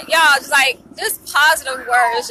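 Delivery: overcome, crying through the words; tearful. Real, not acted. Vlogger moved by supervisor's kind words, tearful.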